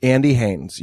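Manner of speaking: usual speaking voice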